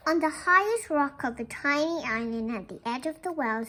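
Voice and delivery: gentle, measured read-aloud voice; storybook reading. Acted. Teacher reading a picture book to the class, gentle storytelling.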